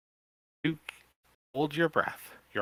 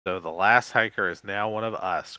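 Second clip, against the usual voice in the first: gloating; 6 dB louder than usual. Acted. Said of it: "Crump gloats".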